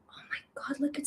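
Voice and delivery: breathless whispered awe; real hushed whisper. Real, not acted. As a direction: whisper so the puppies stay calm. Whispering near sleepy puppies.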